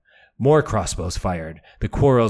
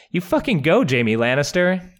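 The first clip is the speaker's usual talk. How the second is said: excited cheer; 7 semitones higher than usual. Real, not acted. Host cheering for Jaime.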